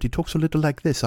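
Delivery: reserved English accent, put on; a guitarist. Shown as a demonstration. Comic demonstrating the reserved guitarist, mock British accent. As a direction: try a restrained British voice. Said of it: "The guitarist's a little more reserved".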